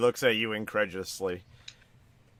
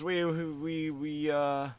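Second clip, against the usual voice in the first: put-on higher, stammering little boy; a scared kid tripping over his words; frightened child; 5 semitones higher, slower than usual. Shop boy frightened by the undead customer, stammering high. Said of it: "young child looks at you, a little bit frightened".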